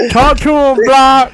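laughing through the words. Real, not acted. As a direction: crack up while saying it. Teasing friend mid-laugh.

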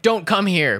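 loud mocking "go home" voice; mock xenophobe. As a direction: bark it like a hostile local. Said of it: "everyone else is like".

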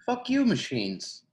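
high, slow, loud "Fuck you, machines."; hammed-up cursing at an imaginary foe; mock outrage. Cursing machines to amuse a friend, hammed-up and high.

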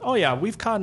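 a casual brush-off from the Airbnb owner, voiced high; mock-breezy host; dismissive owner. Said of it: "He goes".

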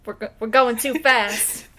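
put-on slow, lightly done old Bernie; a hint of Bernie Sanders, slowed down. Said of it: "I'll do my best Bernie Sanders voice".

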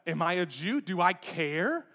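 mock indignant outburst; indignant Pilate. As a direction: play an affronted governor pulling rank. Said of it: "Pilate's indignant".

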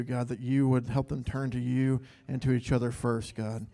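steady, earnest prayer voice; heartfelt prayer. Real, not acted. Leader prays over the pastor couple in front of the church, earnest.

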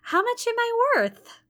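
high, loud stunned question. Acted. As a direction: blurt it out in disbelief. Jane stunned by news.

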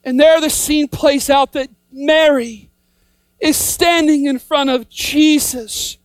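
ordinary talk

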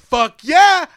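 high, loud burst of glee; excited cheer. Acted. Fan imagining seeing a monster, excited cheer. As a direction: whoop it out, stretching the yeah.

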